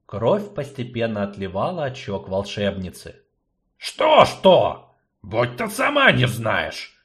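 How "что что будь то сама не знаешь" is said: grumpy gnome growl, louder; grumbling. Acted. Gnome grumbles at sorceress, irritated. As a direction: grumble it back. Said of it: "проворчал гном".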